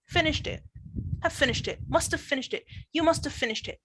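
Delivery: each chunk said clearly with a falling end, built up from the back; teacher models the build-up to the class, one chunk at a time, clear falling tune; backchained drill. Shown as a demonstration. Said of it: "focus on the intonation ... and the stress".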